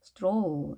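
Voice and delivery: 스트롤 with a long drawn-out "oh"; lengthened vowel. Shown as a demonstration. Teacher models the word for learners, 스트롤 with a longer vowel. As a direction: stretch the o in 스트롤. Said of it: "좀 더 길게 발음이 됐죠".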